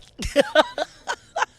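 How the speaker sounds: loud high burst of laughter; hearty laugh. Real, not acted. Big laugh at comedy joke.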